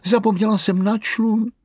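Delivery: výrazně vyšší, hlasité zvolání; zoufalé zvolání. Acted. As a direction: zoufale vyhrkni. Maminka zoufale vykřikne. (maminka zoufale a hlasitě volá o člunu)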